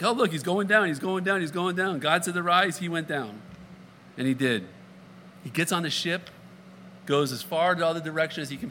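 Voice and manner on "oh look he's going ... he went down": mock excited reader. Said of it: "if you're into symbolic in nature, like".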